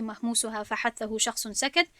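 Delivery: chanting the Jazari verse in measured rhythm; verse recitation. Shown as a demonstration. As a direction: recite it like a memorized tajwid couplet.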